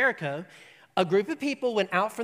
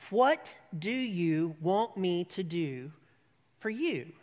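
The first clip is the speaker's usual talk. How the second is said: gentle question; 2 semitones lower, slower than usual. Acted. Jesus asking the blind beggar, slow and gentle. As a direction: offer help tenderly.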